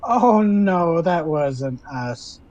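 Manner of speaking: lightly voiced hag, drawn-out words; a hint of a giggly hag, stretching the denial; giggly sea hag. Sea hag denying blame for the wreck, mildly giggly. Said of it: "Betty the Sea Hag kinda giggles".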